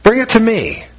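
Jesus urging the listener again, lifted and earnest; Jesus pleading. Acted. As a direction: press the offer home a second time. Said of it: "Jesus says".

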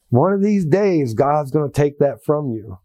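imitated low-key Southern drawl; a kindly man's warning in a light Southern drawl. Churchman warning new Christian about smoking, light Southern drawl. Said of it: "low key with a Southern drawl".

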